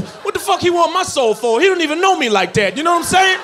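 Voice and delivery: fired-up comic outrage, laughing; outraged shout. Real, not acted. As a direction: shout it in disbelief.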